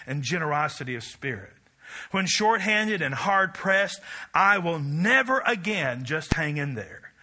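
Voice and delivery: building manifesto, preached with rising force; preaching recital. Acted. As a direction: proclaim it like a credo from the pulpit.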